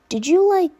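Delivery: put-on high filtered girl voice, teasing; giggly filtered girl voice, half-laughing; giggling clone girl. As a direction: tease him in the clone's filtered voice. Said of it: "the voice giggled".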